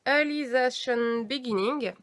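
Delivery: slow, careful English accent from a French speaker. Shown as a demonstration. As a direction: draw out the title in an attempted English accent. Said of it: "avec mon super accent anglais". (accent anglais appliqué)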